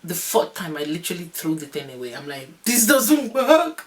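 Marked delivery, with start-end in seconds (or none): 2.6-3.8 high, loud, drawn-out wail; slow high-pitched complaint at full volume; mock frustrated yell. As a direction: re-enact a labor outburst, stretching the words. Retold throwing away gas and air.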